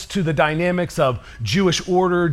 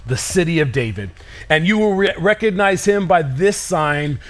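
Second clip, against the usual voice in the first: scripture reading. Acted. Reads angel's words.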